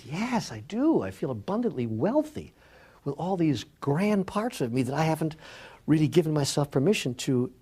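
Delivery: lifted, emphatic retold delight; retold elation. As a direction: imitate a man moved by his discovery. Man exults in his new abundance.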